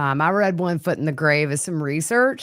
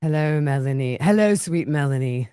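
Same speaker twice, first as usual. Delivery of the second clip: Chad voice; 3 semitones lower than usual. Retold or imitated. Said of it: "He's like".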